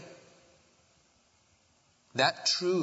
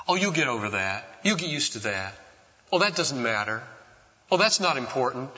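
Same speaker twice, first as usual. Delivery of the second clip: lightly glib brush-off; glib, dismissive. Acted. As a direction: toss it off like a dismissive parent. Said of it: "say in a glib and quick way".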